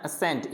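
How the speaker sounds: असेंट as "a-sent", only an S sound; no separate C in असेंट; silent C. Shown as a demonstration. Teacher models it for students, असेंट with silent C. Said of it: "यानी सी को नहीं बोलना".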